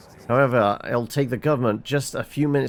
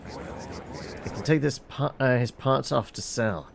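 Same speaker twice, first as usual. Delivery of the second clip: scheming; 5 dB quieter, slower than usual. Acted. Scheming about selling parts.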